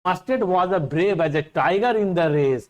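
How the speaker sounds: slow, measured reading of the English verse; poem reading. Shown as a demonstration. Teacher reading a poem line to students, slow and measured. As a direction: read the poem line out slowly to the class.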